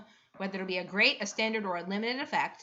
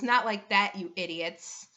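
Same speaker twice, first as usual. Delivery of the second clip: snorting scorn. Acted. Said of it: "she snorts and says".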